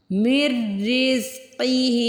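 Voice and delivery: मिर with मीम joined straight into a doubled र, no नून sound; slow recitation, मिर रिज़्क़िही joined; merged mir. Shown as a demonstration. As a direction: slide मि into रिज़्क़िही without an n. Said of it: "मिर, मीम को रॉ से मिला लीजिए".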